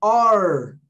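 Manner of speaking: "R" with a long curled ending; drawn-out demo of "R"; English letter R. Shown as a demonstration. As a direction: hold the retroflex sound in "R". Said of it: "Olha o som do R".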